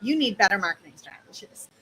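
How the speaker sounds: fast, stern scolding. Shown as a demonstration. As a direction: scold like a teacher. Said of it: "you're getting scolded".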